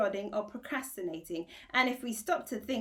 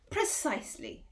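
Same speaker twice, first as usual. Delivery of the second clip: shouting; 5 semitones higher than usual. Acted. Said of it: "shouted the dog".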